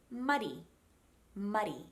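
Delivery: muddy with a light tap for the D; soft middle D. Shown as a demonstration. Coach shows mid-word sound, soft tapped muddy. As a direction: flick the D lightly inside muddy. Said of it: "it's the same sound".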